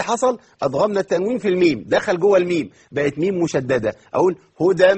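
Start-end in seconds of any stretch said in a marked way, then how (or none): 4.6-4.9 هدى with nasal ghunna held on the merged meem. Shown as a demonstration. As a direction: let هدى hum through the nose. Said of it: "مع الغنة".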